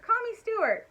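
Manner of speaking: crying out. Acted. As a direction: cry it out eagerly. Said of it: "cried Stuart".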